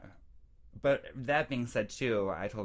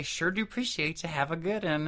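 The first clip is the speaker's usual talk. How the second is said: higher, run-together Tennessee twang; Tennessee accent; 7 semitones higher than usual. Retold or imitated. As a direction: mimic the locals' Tennessee accent. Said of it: "can't even say it like they do".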